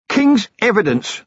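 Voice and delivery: a beaten thug begging a deal; villain blurting a plea; Stratford, desperate. Acted. Stratford pleads.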